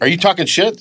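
high mock cholo voice, jabbing "talking". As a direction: needle him like a street tough, pitched high. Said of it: "he's talking like a cholo".

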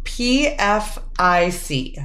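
slow whispered letters. Acted. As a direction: whisper it like a hint. Quiz game on acronym.

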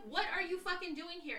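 high-pitched retold disbelief; acted-out incredulous question. Retold confronting unexpected visitor.

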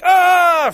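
a sudden high scream from a jump scare; imitated scream. To the co-host, mimicking the jump scare with a high loud yell. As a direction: yelp loudly as if the killer just leapt out. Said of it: "It's like".

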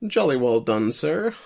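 jolly upper-class toast; posh British gentleman. Retold or imitated. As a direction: play a posh English gent. Mock posh applause.

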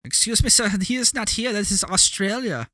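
high-pitched mock explainer voice; hammed-up, high, oddly careful protest; put-on local's voice. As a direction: correct a confused tourist in a silly high voice. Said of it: "Why are you talking like that?".

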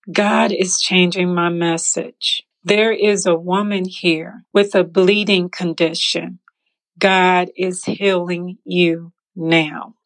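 pastor voice. Retold or imitated. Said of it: "the pastor says".

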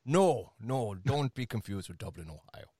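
light put-on Irish brogue; Irish accent. Host correcting his co-host about Dublin, Irish accent. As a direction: lightly keep up the Irish lilt. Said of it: "I have a few accents".

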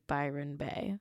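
laughing mock Australian Byron Bay; mock Australian accent. Shown as a demonstration. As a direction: say Byron Bay like an Aussie reality show host. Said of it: "sorry for my Australian accent".

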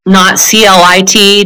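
C L I T spelled letter by letter, slowly. Shown as a demonstration. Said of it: "just for our list".

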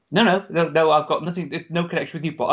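lightly attempted Brummie accent; poor Brummie accent. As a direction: imitate a Brummie, not very well. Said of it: "a Brummie accent from me".

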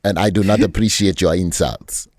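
hammed-up African accent, indignant; affronted, in a badly faked African accent; mock African accent. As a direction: put on a bad African accent.

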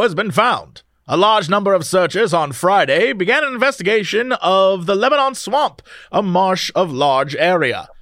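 put-on grand old newsreel announcer reading; old-timey announcer. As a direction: read it like a vintage radio announcer. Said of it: "Give me your old-timey announcer voice".

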